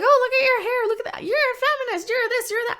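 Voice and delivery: high whiny mock voice; mocking critics. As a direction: sneer like snippy online critics. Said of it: "They're like".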